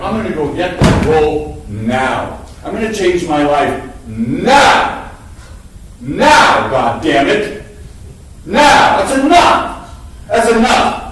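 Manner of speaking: grab the moment and demand it now; determined outburst. Retold or imitated. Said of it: "I finally went".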